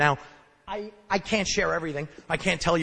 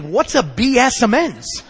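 puzzled sponsor; 5 semitones higher, 8 dB louder, slower than usual. Retold or imitated. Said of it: "he's like".

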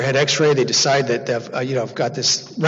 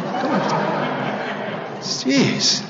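laughing protest; 9 semitones higher, 4 dB quieter, much slower than usual. Real, not acted. Audience laughing at shooting story.

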